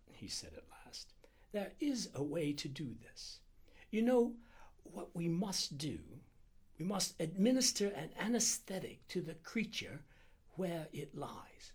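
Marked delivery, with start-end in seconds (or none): 1.5-11.7 high-pitched, measured doctor; deliberating Indian doctor. Acted. Doctor proposing anesthetic for the snake, high and deliberate. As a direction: work out the plan piece by piece.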